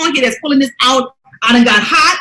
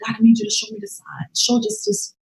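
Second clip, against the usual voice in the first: a soft, high plea to God; pleading prayer; 9 semitones higher, 8 dB quieter than usual. Retold or imitated. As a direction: softly beg God for a sign, higher up. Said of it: "and I said".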